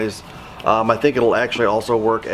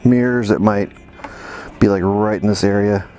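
putting helmet on. Real, not acted. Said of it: "I put a mic inside the helmet".

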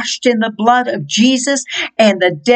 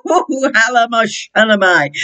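speaking in tongues. Real, not acted.

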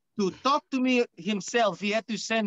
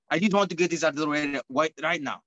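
put-on Cuban accent. Luchador claiming the show as his own, Cuban accent. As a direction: announce yourself grandly in a put-on Cuban accent. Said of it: "accent from Cuba".

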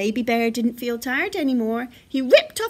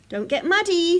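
raised, louder dad bear warning; Father Bear; 5 semitones higher, 5 dB louder than usual. A narrator's reading. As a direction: caution a child at play. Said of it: "said Father Bear".

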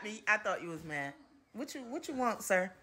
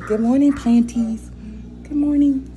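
sing-song greeting; 4 semitones higher, 4 dB louder than usual. Real, not acted. Greeting plants.

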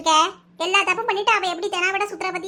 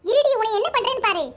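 raised, angry confronting voice; indignant scolding; 2 semitones higher than usual. Acted. Woman confronting someone who hit a child of her house, indignant. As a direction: lay into her with rising indignation. Acted quarrel, defending the child.

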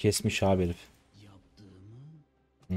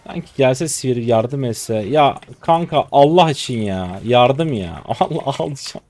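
despairing plea; 5 dB louder, slower than usual. Real, not acted. Begging for help, despairing.

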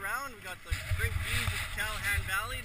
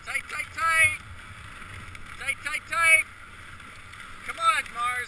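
dog sled musher; 8 semitones higher, 10 dB louder, slower than usual. Real, not acted. Musher calling sled dogs.

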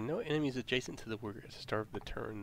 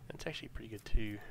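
whispering. Real, not acted. Whispered aside during planning.

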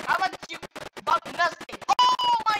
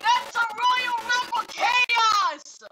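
higher, very drawn-out exclamation; excited proclamation; 4 semitones higher, much slower than usual. Real, not acted. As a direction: stretch it out like a big announcement. Announces the chaotic race result.

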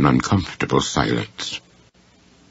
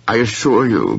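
higher, pained protest; almost in anguish; 6 semitones higher than usual. A narrator's reading. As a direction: plead your innocence, close to anguish. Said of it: "almost in anguish".

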